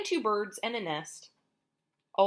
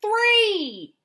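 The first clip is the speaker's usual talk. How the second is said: much higher, louder burst on the last number; shocked counting; 14 semitones higher, 12 dB louder than usual. Acted. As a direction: hit the final count in alarm. Counting eggs, climax.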